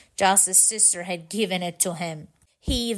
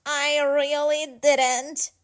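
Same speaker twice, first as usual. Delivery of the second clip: slow, drawn-out pleading denial; 5 semitones higher, slower than usual. Acted. Franklin pleading with his angry parents, slow and drawn out. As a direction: beg them to believe you. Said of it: "Franklin cried".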